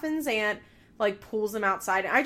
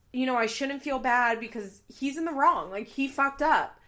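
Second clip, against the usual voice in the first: mimicking Kayla; 5 semitones higher, 5 dB louder than usual. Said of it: "because she is like".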